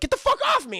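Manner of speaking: high-pitched mock outrage; angry wildebeest. Streamer voices the wildebeest throwing Anakin off, mock anger. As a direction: squawk it as an indignant beast.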